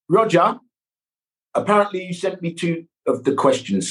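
light Red Dwarf Cat voice. Pretend. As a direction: greet Roger as the Cat. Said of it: "in your cat voice".

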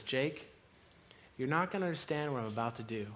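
calm him before the plunge; tender, hushed. Retold or imitated.

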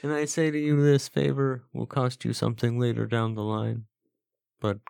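high, hammed-up Godfather-style mob boss; mafia don voice. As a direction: play a grand mafia don granting favors. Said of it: "definitely a mafia man's name".

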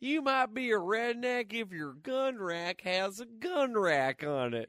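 redneck stand-up voice, starting high and dropping off; redneck comic impression. Trading Jeff's redneck jokes with co-host, redneck comic impression. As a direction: deliver it like a redneck joke. Jeff Foxworthy redneck joke parody.

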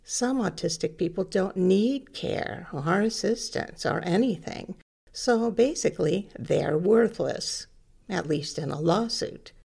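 dry sarcasm; sarcastic mock reasoning. Real, not acted. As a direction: state the absurd conclusion with irony. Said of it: "I'm being sarcastic".

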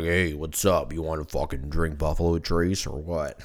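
a hint of an old cowboy voice; Sam Elliott voice. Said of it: "you turn into Sam Elliott".

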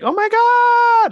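loud, drawn-out falsetto squeal; imitated joyful shriek. Friends seeing her alive, hammed-up happy shriek. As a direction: squeal it very high and long. Everyone's happy reaction, acted.

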